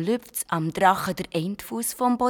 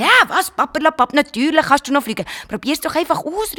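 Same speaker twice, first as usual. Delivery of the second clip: high, loud brushing-off call; 6 semitones higher, 5 dB louder than usual. Acted. Garnelli calls out to the shy dragon, high and loud. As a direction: wave away the doubt loudly. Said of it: "ruft das Garnelli".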